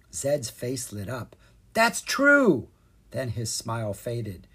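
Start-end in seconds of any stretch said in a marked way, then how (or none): 1.7-2.7 much higher, louder happy realisation; light up with sudden joy; high delighted exclamation. A narrator's reading. Zed's face lit up.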